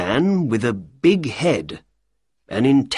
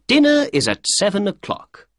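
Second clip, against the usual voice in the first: Holmes voice; 11 semitones higher than usual. Acted. Holmes voiced in read story.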